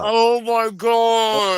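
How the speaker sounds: drawn-out stunned gasp; slow horrified oh my God; shocked. Real, not acted. Shocked reaction to death.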